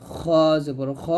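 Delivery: thick, rounded "খ" from upper throat; heavy letter. Shown as a demonstration. Teacher drilling learners, "খ" said heavy. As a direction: say "খ" heavy and full. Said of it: "মোটা করে উচ্চারণ করতে".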